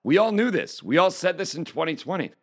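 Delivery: exasperated disbelief. Retold or imitated. Retelling his own reaction to the news, incredulous. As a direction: scoff like it's old news. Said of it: "I'm sitting here going".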